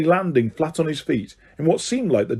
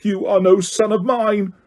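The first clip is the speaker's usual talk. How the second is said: higher, furious bellow; 7 semitones higher than usual. A narrator's reading. Crouch to his son, furious bellow. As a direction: disown him with a roar. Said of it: "bellowed Mister Crouch".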